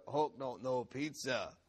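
lightly voiced monster; a lighter touch of the brute voice; Hulk. Preacher recapping the boy's lightly done Hulk voice. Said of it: "say things in this really hilarious Hulk voice".

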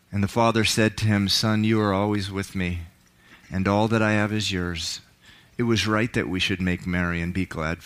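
dramatic Bible reading, voicing the characters; scripture reading. Pastor to congregation, dramatic scripture reading. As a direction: read the parable with feeling, rising for the son's pleas. Preacher reads the prodigal son.

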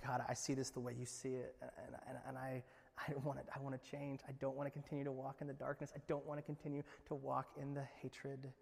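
soft, earnest confession; repentant prayer. Acted. A believer confessing to God, soft and earnest. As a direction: plead quietly with God.

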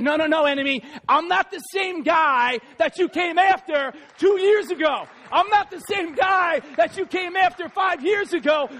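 building from firm refusal to fighting challenge; defiant challenge. Retold or imitated. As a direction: stand up to the enemy and dare him. Acted defiance of the enemy.

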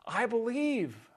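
the father pleads with Jesus; heartfelt cry. Acted. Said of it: "the father replies".

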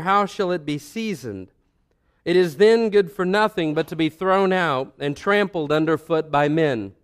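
measured, solemn reading of scripture. Acted. Reads scripture passage aloud.

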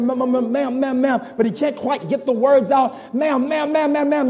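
stuck on the same word, lightly voiced; stammering ma'am. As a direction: stutter over each ma'am. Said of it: "begins to stammer and stutter".

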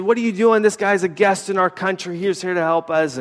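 half-hearted retold scolding; retold neighbors yelling. Neighbors scolding the gas man, mild mock yell. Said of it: "they started yelling at him".

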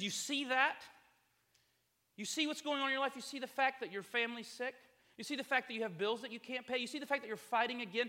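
loud, high, jabbing accusations; accusing serpent. Acted. The serpent taunting a struggling believer, loud and accusing. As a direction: hammer each doubt home like a tempter. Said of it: "He says".

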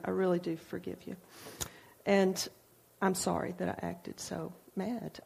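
mean every word, softly; sincere apology. Retold or imitated. Hugging her daughter Joanna, a soft, sincere forgiveness. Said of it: "to really sincerely".

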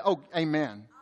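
low, soft murmured amen; pious response. Acted. Preacher mimics churchgoers responding after a scripture pause, soft and pious. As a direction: imitate a congregation's hushed assent. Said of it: "so that everybody else can say".

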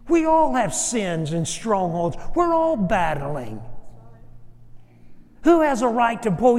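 forceful Southern-style sermon delivery; impassioned preaching. Real, not acted. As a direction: drive each question home to the congregation.

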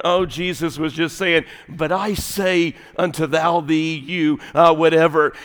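offhand, shrugging scripture reading; casual Bible reader. Acted. Imitating a Baptist reader of King James, offhand. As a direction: toss it off as unimportant. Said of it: "when you read it in your American Baptist".

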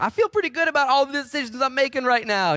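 high, loud smug voice; hammed-up high voice of a complacent believer; mock self-satisfied churchgoer. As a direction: play the smug loner pleased with himself. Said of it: "You're like".

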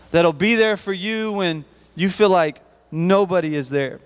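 rising, impassioned preacher's call; preaching. Acted. Youth pastor to students, rising preacher's plea. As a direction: preach it up high to the youth group. Preaching on friends who carry you.

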